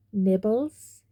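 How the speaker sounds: sweetly offered, lilting up; mock sweet. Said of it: "he said sweetly".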